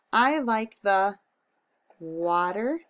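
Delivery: slow word by word writing; slow dictation. Shown as a demonstration. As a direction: say each word as you write it. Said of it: "snap words".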